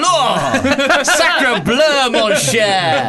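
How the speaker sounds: high hammed-up French exclamations; French accent. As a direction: ham up a cartoon Frenchman. Mocking Thierry Henry as French.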